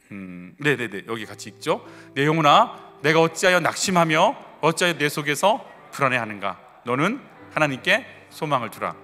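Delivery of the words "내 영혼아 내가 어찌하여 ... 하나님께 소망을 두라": measured, phrase-by-phrase psalm reading; scripture recitation. Acted. Pastor leading the congregation in a psalm of longing, scripture recitation. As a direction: recite steadily so a congregation can read along.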